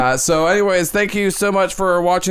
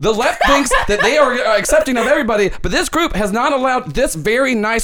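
slightly raised mock breaking-news report; a hint of a pundit spinning a story; Ken De Niro breaking news; 4 semitones higher than usual. Host reporting the exclusion live, mildly hyped anchor. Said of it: "Does your voice always sound like that?".

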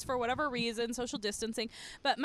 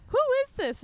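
alarmed quote; 11 semitones higher, 4 dB louder than usual. Retold or imitated. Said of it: "And I was like".

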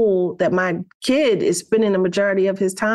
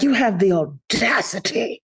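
prompted line. Shown as a demonstration. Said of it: "you should say things like".

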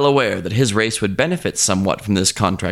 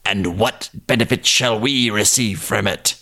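sly yippy jackal. Acted. Jackal questions the crocodile's offer.

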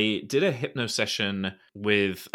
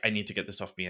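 quietly pleading to get clean; lowered, half-muttered need; lightly voiced disgust; mock desperate mutter; 3 semitones lower, 6 dB quieter, much faster than usual. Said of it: "I'm like".

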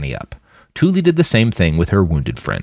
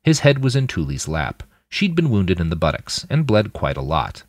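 ordinary delivery, nothing marked

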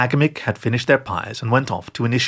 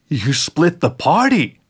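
mock shout; 5 semitones higher, 3 dB louder, slower than usual. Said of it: "Eric shouted".

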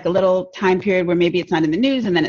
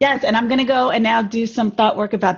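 laughing; 3 semitones higher than usual. Real, not acted. Both hosts laughing at sign-off.

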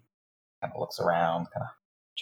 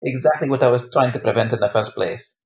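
higher, louder exasperated retort; 4 semitones higher, 6 dB louder than usual. Acted. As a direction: snap back in frustration. Exasperated character argument.

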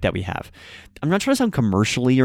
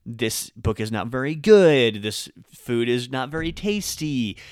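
slow example; slower than usual. Shown as a demonstration. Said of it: "used in something like".

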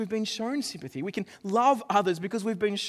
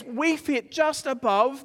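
slow, drawn out; 4 semitones higher, 3 dB louder, much slower than usual. Retold or imitated. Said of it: "what we say is".

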